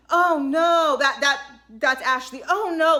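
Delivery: loud dramatic mock dismay; pearl-clutching. Ashley hearing of the glitch, loud hammed-up dismay. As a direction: clutch your pearls and wail oh no. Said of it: "literally clutches her pearls".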